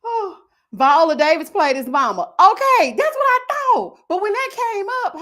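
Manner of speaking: high, laughing squeals; rising into helpless laughter; laughing hard. Real, not acted. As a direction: talk through a fit of laughter. Laughing at comments.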